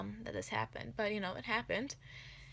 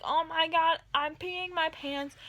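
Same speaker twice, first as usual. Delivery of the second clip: panicked cry; 8 semitones higher, 6 dB louder, slower than usual. Retold or imitated. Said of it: "I'm like".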